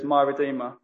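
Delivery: "my" picked out firmly; "my" stressed over "Redeemer". Shown as a demonstration. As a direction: lean on "my" in contrast. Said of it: "He didn't say "my".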